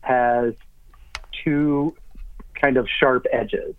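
speaking around an object in the mouth; mouth full. Real, not acted. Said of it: "a bad idea to put that in your mouth".

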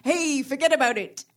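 posh Englishman faking a New York mobster; a Brit straining at a Brooklyn wiseguy; Hugh Grant's mobster accent. Pretend. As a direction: Hugh Grant in Mickey Blue Eyes, hamming it up. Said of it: "I can do Hugh Grant in the film Mickey Blue Eyes".

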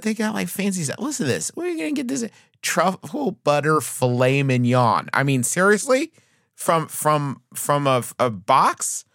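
gushing, can't believe it; amazed disbelief. Acted. Ad read, mock amazement at meals.

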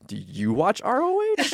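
high, slow, thrilled question; delighted echo. Retold or imitated. Answering the deli guy who spotted her hoodie, thrilled. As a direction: echo it back in disbelieving joy.

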